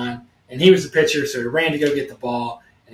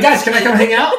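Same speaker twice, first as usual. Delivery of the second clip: timid asking; 6 semitones higher, 4 dB louder than usual. Retold or imitated. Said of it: "He's like".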